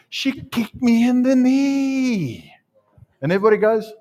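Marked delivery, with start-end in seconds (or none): 0.1-2.5 very high, drawn-out mock wail; hammed-up public complaint. Preacher pretends to tell the congregation of the offence, hammed-up complaint. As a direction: stretch it out like a playful tattletale.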